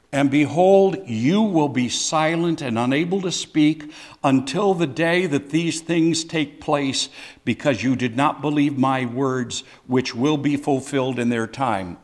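loud, firm pronouncement of the sentence; a judge handing down a verdict; the angel announces Zechariah's punishment with loud firmness; Gabriel's rebuke. Acted. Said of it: "correction in those t-, words".

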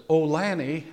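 "Oh, Lanny" asked lightly, like a question is coming; a wife's mild, inquiring "Oh, Lanny"; Ruth Ann's curious "Oh, Lanny". Retold or imitated. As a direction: lift "Oh, Lanny" gently as if about to ask something. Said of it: "There's a difference that when Ruth Ann says".

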